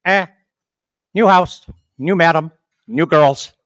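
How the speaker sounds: loud parrot announcement, phrase by phrase; lightly voiced parrot, punched out loud; joke parrot. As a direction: announce each newcomer as a talking parrot. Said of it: "the parrot looks at 'em and says".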